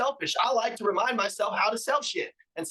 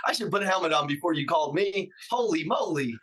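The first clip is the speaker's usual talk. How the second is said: hyped salesman; 3 semitones lower than usual. Retold or imitated. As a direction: fire up the customer on the phone. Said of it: "Are you like".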